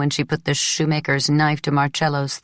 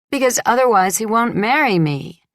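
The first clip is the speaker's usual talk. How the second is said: higher and louder, stung; upset outburst; 7 semitones higher, 4 dB louder than usual. Acted. Bride snaps back at her friend, higher and louder. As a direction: blurt it out hurt.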